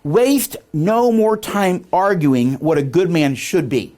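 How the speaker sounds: slow, emphatic quote reading; solemn quotation. Shown as a demonstration. Speaker reading a famous quote to the room, emphatic. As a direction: declaim it slowly and deliberately.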